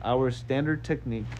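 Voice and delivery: slow, drawn-out alien character voice; lightly voiced alien, stretching the phrases. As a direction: take it slowly as a lightly played alien. Alien answers in accented character voice.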